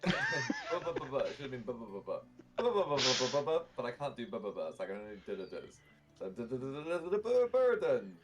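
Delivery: glitching robot stuck on a syllable; stuttering tinny automaton; metallic voice filter. Acted. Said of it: "tinny, metallic voice".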